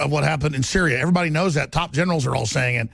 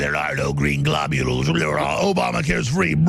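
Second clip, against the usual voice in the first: mock Hillary voice; slower than usual. Mocking Hillary voice.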